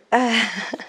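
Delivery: real laugh at her own joke; self-amused laugh. Real, not acted. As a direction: burst out laughing at yourself. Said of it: "Je me fais rire toute seule".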